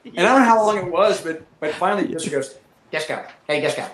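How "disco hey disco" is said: lightly imitated buddy on the radio; softer, offhand call to a wingman; a hint of a friend's way of talking; Fister. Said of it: "That's how Fister talks".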